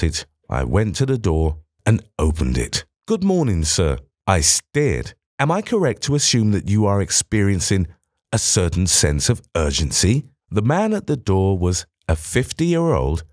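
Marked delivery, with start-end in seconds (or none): 3.1-10.2 lightly voiced nervous scholar; anxious museum director. Thompson voiced by narrator.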